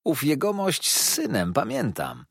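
Steerforth recalling, lightly voiced young man; a casual young gentleman's remark; exclaiming. Steerforth recalling the fisherman to David, lightly exclaiming. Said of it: "zawołał".

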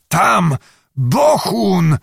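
high, alarmed warning; terrified astonishment. A narrator's reading. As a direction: blurt it out as if you had seen death. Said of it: "malował się przestrach w połączeniu z największym zdumieniem".

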